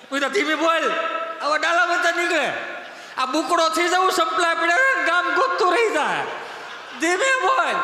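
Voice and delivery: high, loud hushing plea; urgent mock warning. Urging friend to talk softly. (ગભરાઈને ધીમે બોલવાની વિનંતી)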